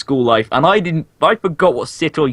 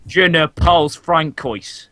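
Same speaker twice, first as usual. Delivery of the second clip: slow, hammed-up French accent; a bad French accent; mock French accent; 2 semitones higher, slower than usual. Shown as a demonstration. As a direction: put on a cheesy French accent. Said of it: "French accent".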